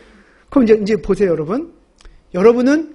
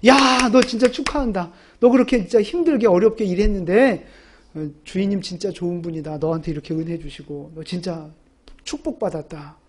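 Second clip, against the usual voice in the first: mock congratulation; 6 semitones lower, 3 dB quieter than usual. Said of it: "이렇게 막 칭찬해주고 축복해주고".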